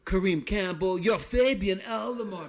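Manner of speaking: put-on playful French-accented quote. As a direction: mimic a Frenchman earnestly making his point. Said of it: "French accent".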